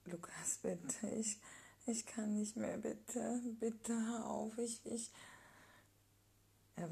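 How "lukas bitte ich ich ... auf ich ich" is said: crying plea. Acted. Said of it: "Ich weine".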